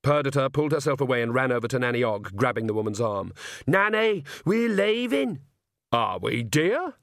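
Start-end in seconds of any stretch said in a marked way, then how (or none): 3.7-5.4 high, urgent call to leave. Acted. Perdita urgently flees vampire. 5.9-7.0 calm. Acted. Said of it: "said Nanny calmly".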